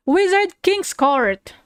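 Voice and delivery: slow, grand title announcement; announcer voice. Pretend. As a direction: boom out the title slowly. Announcing title again, louder.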